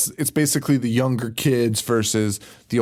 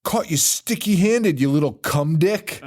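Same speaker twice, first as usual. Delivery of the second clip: retold scream; 5 semitones higher than usual. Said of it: "she screams".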